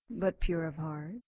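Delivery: pure of heart asked with a mocking rise. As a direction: sneer the words pure of heart. Demon mocks the cleric's claim.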